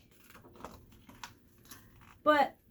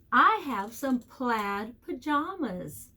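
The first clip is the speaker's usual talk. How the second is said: slow model sentence. Shown as a demonstration. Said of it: "Can you think of a sentence".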